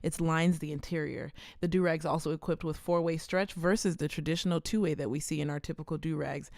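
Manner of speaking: steady sponsor read. Acted. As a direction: read the ad copy evenly.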